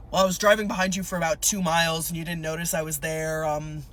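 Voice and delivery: lightly voiced patrol officer, low; cop impression. Officer explains following driver, light cop impression. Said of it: "my cop impression".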